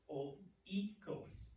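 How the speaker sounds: "oikos" said carefully, syllables set apart; careful pronunciation. Shown as a demonstration. Teacher repeats the new word for class, careful pronunciation. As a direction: sound out "oikos" distinctly for learners. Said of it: "this is the word".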